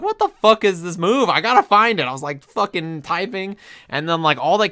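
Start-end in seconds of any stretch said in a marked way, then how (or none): 0.0-2.1 higher and louder, frantic disbelief; replaying his own frustrated search. Retelling frantic search for move.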